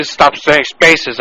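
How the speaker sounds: drawn-out mock quoting of a curt employee; imitated fresh remark. Caller throws the employee's words back at him, imitated fresh remark. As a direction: slowly parrot the fresh remark. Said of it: "Were you getting fresh with me".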